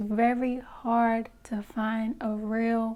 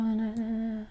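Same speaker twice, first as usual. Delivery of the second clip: mumbling; 2 semitones lower, 4 dB quieter than usual. Retold or imitated. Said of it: "they'll mumble, they'll speak real low".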